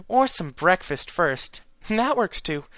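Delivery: slow, giggly mare voice; amused and sweet. A narrator's reading. Twilight amused.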